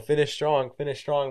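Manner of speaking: called out high and loud; loud retold coaching call; coach shouting. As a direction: yell it across the track at a struggling runner. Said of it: "when you fail, they just say".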